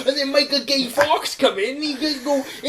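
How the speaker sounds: high, slow simpleton narration; childlike, broken-English daft voice; deluded film dreamer. Acted. Film dreamer narrates his story.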